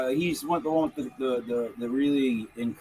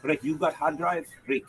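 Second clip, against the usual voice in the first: lightly put-on Lithuanian woman's accent; imitated Lithuanian accent. Host mimicking a young bar worker, Lithuanian accent. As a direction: imitate a Lithuanian party girl's English. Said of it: "That woman's voice".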